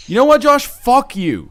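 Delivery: high, loud joking snap; fake-angry jab at a friend; mock outburst.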